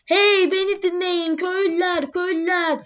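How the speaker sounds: half-hearted public announcement call; calling out to villagers. Acted. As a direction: hail the villagers across the square, lightly. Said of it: "E, bağırıyorum arkadaşlar".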